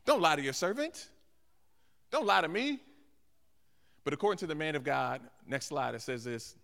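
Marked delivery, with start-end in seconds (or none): 0.1-2.8 incredulous plea. Acted. Woman's disbelieving reply acted.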